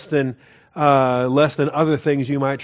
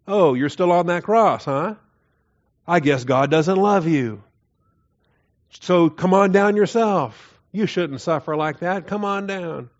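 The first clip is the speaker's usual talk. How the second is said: jeering, higher-pitched sneer at the man on the cross; mock taunt; 4 semitones higher than usual. Mocker jeering at the crucified one, mock taunting. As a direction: taunt him like a mocking bystander. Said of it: "It's a taunt".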